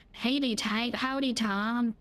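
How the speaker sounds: slow cowboy-style American howdy; American accent. Shown as a demonstration. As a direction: drawl a friendly American greeting. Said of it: "Found all American accent there".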